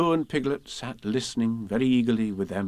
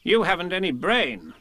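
Rabbit, kindly; 7 semitones higher than usual. A narrator's reading. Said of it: "said Rabbit kindly".

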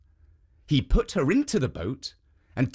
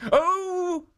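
higher, hurried protective statue; raised urgent guardian voice. Acted. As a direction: hush her quickly behind the sleeve. Jitso feigns innocence.

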